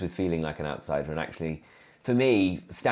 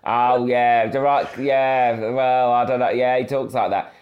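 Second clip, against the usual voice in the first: lightly voiced puzzled parents, louder and a little higher; 5 semitones higher, 8 dB louder than usual. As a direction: mimic mum and dad baffled by their posh son. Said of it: "my mum and dad were like".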